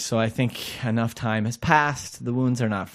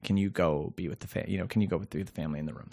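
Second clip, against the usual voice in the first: hospital call; 8 semitones lower, 10 dB quieter than usual. Retold or imitated. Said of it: "it's like they call you and it's like".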